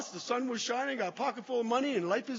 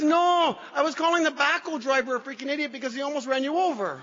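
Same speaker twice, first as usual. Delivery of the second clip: mock incredulous; 5 semitones higher, 6 dB louder than usual. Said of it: "He says".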